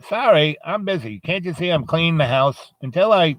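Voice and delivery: lightly voiced old lady putting Death off; busy old lady. Old lady refusing Death while cleaning.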